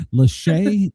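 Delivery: "Lachey" as luh-SHAY, pitched high; name ending in "shay". Retold or imitated. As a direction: end "Lachey" on a long AY sound. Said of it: "sister has a Chicago accent".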